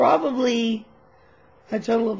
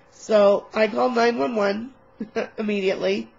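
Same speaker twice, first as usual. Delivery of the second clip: laughing. Real, not acted.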